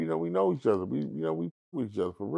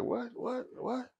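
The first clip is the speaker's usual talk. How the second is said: higher but softer, lazily puzzled; mock Suge; 12 semitones higher, 10 dB quieter, slower than usual. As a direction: shrug it off half-listening. Suge answering Cat.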